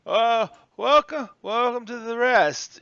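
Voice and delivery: high, loud, drawn-out welcome; eager old bellhop; old bellhop greeting. Acted. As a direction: greet guests slowly and loudly, pitched high.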